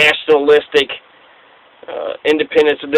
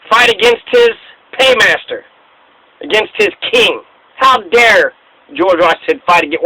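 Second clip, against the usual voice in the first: outraged Washington. Retold or imitated. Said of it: "what got George Washington to say".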